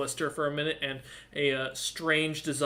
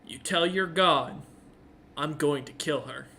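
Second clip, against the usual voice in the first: threatening tiefling. Acted. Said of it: "looks you dead in the eyes and goes".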